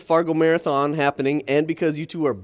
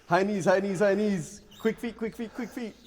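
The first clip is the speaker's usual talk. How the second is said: aerobics instructor; 4 semitones higher, 3 dB quieter than usual. Pretend. Coaching runner like aerobics instructor.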